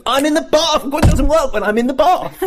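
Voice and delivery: high squeaky mock Bert; Bert punchline. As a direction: squeal the punchline like a giddy kid. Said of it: "And he goes".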